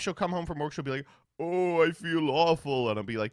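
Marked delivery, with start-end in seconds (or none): 1.4-2.9 slow, drawn-out mock moan; hammed-up poorly wife; mock suffering. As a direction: lightly imitate a wife feeling awful. Imitates wife home feeling ill.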